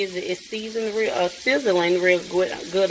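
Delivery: tripping over the words; stuttering. Real, not acted. Cook stuttering while moving so fast, tripping over words. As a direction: stumble and restart as if rushing. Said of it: "I'm stuttering really bad".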